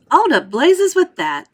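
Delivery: high, loud, slow defiance; defiant outburst. Acted. Violet brushing off Wonka, loud and defiant. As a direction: fling the warning aside.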